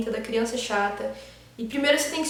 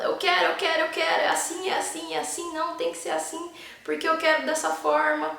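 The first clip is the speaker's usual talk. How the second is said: a hint of a whiny child, pitched higher; whiny bratty child; 5 semitones higher than usual. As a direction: lightly play a stubborn brat insisting. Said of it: "sabe aquela criança birrenta? Fala". (criança birrenta imitada de leve, voz mais aguda)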